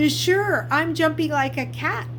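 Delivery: put-on nervous boy. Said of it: "Luke started to say".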